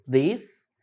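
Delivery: "this" with a D at the start, like "dis". Shown as a demonstration. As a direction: say "this" starting on a D sound. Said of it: "ele vai ter som de D".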